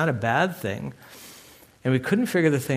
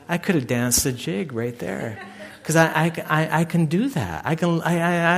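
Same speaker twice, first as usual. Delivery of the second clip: laughing joy; 2 semitones higher than usual. Real, not acted. Joy at God's answer.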